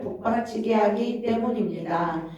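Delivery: measured, formal read-aloud delivery. Real, not acted. Teacher reads the lesson text to her group, formal reading. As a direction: read the written teaching out evenly and firmly. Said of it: "이제 읽어보겠습니다".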